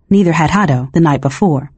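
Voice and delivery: plain reading voice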